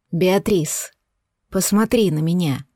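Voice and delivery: tender male voice. Acted. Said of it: "голосом Скайдена".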